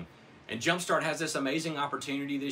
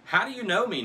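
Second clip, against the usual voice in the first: astonished question; 10 semitones higher, 8 dB louder than usual. Acted. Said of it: "Nathanael asked".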